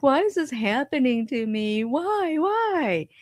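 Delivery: self-pitying whine. Retold or imitated. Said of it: "was like".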